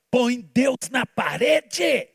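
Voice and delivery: mock the old teaching, drawn out; mocking slogan. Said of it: "começaram a ensinar assim". (ridicularizando o slogan, lento e gritado)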